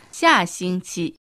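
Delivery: slow model word. Shown as a demonstration. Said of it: "来週は、".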